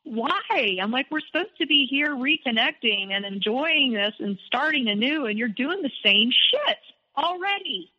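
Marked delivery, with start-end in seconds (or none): 0.0-0.8 exasperated, high-pitched retold question; retold quarrel. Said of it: "we got in this huge fight". 1.1-7.9 exasperated retelling, pitched higher; retold quarrel. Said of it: "we got in this huge fight".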